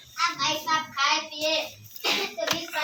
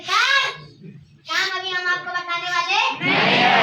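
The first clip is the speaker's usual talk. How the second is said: indignant refusal; 5 dB louder than usual. Retold or imitated. Husband refusing to tell his wife about work, indignant.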